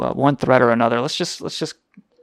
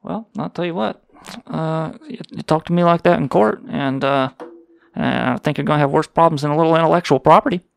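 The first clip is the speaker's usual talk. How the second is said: indignant Southern voice; 2 semitones higher than usual. Acted. Host telling off caller over the show's name, indignant Southern voice. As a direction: bluster like an affronted Southerner. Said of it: "indignant Southern voice".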